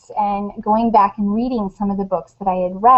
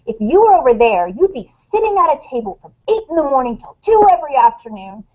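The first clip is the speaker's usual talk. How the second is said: retold exasperated mom lecture, a bit heightened; mock-dramatic scolding of a distracted son; overdramatic lecture. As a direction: play up the frustrated speech. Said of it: "I was getting pretty overdramatic".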